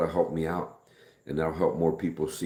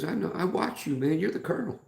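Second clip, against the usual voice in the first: much higher, eager fan gushing; excited fan; 13 semitones higher than usual. Retold or imitated. Retelling a fan who recognized him, high and eager. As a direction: play the starstruck stranger. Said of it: "He goes".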